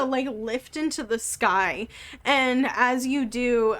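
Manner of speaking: usual speaking voice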